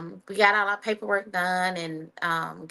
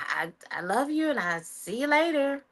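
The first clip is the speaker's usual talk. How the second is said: whispered goodbye; 7 semitones higher than usual. Retold or imitated. To her mom as she leaves for basic, whispered.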